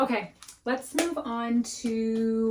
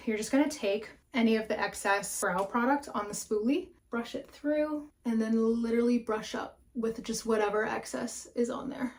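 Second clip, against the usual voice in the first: out of breath. Real, not acted. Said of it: "I'm, like, breathing so heavy".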